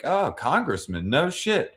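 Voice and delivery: mock-excited druggie rambling; excited quote. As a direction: pitch it up and rush to the punchline. Quoting Daryl excitedly.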